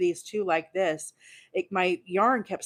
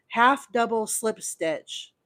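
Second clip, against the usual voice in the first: proud announcement; 6 semitones higher, 3 dB louder, slower than usual. Real, not acted. Naming her new stitch proudly.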